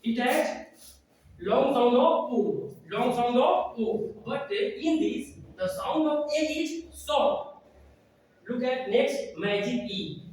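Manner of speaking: slow, drawn-out classroom explaining; slow phonics lesson voice. Acted. Trainer slowly teaching teachers syllable types, drawn-out and emphatic.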